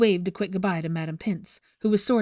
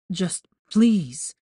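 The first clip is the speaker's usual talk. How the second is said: pained; 5 dB louder than usual. Acted. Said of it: "Malfoy sounded pained".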